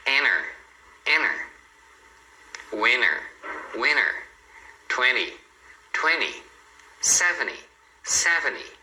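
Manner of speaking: enter, winter, twenty, seventy as "enner, winner, twenny, sevenny"; dropped T. Shown as a demonstration. Teacher giving examples, no T in twenty or seventy. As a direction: leave out the T after N in twenty and seventy. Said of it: "daria pra não pronunciar".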